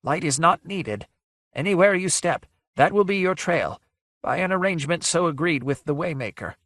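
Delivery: high, quavering ghostly voice; breathless quaver. A narrator's reading. Ghost tells visitors no light is needed, breathless quaver. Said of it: "The breathless quaver of a voice".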